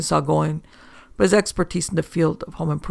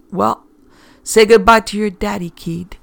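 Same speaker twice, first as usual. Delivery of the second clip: menacing threat; 5 semitones higher, 8 dB louder than usual. A narrator's reading. Johnny threatening with gun.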